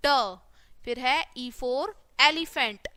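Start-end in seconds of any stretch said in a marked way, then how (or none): 0.1-0.4 ड as "duh", consonant plus short vowel; letter sound demo. Shown as a demonstration. Teacher showing the sound of D, letter sound demo. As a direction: sound out ड on its own. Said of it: "क्या बोलेंगे इसको".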